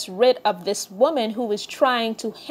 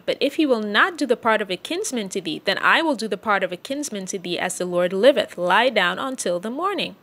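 measured King James reading voice; solemn scripture reading. Acted. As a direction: read the Bible passage aloud to the congregation. Reads Ruth chapter three aloud.

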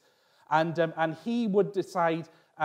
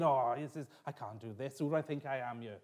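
retold self-doubt; 4 semitones lower, 8 dB quieter than usual. Retold moment of doubting his calling.

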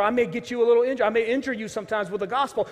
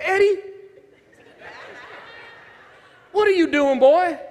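much higher and louder, calling him out; stern shout; 9 semitones higher, 6 dB louder than usual. Retold or imitated. Police officer catching the pastor's son, loud and stern. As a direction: bark his name like you caught him. Officer recognizes Eddie in station.

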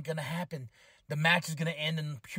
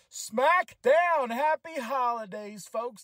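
hyped callout; 5 semitones higher, 4 dB louder, much slower than usual. Acted. Hyped podcast intro callout.

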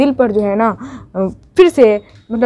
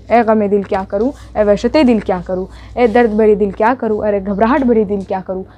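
poem recitation; 3 semitones lower than usual. Acted. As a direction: recite it like a lament to your own heart. Recites the refrain.

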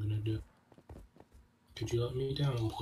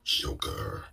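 announcer voice; 14 semitones lower than usual. Retold or imitated. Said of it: "the announcer says in Smash".

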